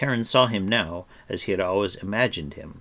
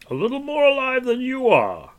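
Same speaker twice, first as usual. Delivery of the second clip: smiling; 9 dB louder than usual. A narrator's reading. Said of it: "Gwydion smiled".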